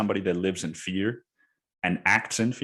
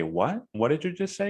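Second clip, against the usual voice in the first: incredulous retort; 8 semitones higher than usual. Retold or imitated. Stunned retort to insulting salesman.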